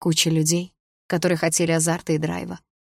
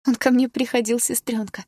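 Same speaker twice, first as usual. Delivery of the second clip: put-on laughing drunkenly; 6 semitones higher than usual. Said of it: "сказала она со смехом".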